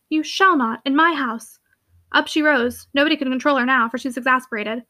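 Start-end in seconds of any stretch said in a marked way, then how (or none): 0.1-1.6 "shall not" pressed firmly; with emphasis. A narrator's reading. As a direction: lean hard on "shall not". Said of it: "she added with emphasis".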